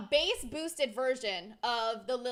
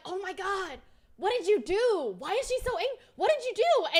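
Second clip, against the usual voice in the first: high-pitched, frantic accusation; mock panic; 8 semitones higher, 6 dB louder than usual. Streamer acts out one friend accusing the other, frantic. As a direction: pitch it way up, getting louder.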